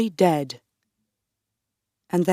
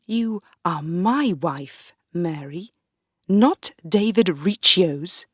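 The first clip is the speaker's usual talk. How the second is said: cold mockery. Darnley mocks the queen.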